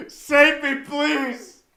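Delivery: high loud cry for rescue; pleading yell. Real, not acted. Desperate fan pleading to be saved, loud. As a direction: beg loudly to be saved. Begging for Rodgers trade.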